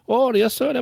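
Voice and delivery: high-pitched mock Asian accent; thick Asian accent. Claims agent answering the caller, high mock Asian accent. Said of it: "his accent was so thick".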